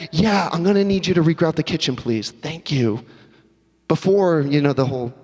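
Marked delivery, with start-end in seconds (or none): 0.1-3.0 breezy insensitive. Acted. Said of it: "Completely insensitive".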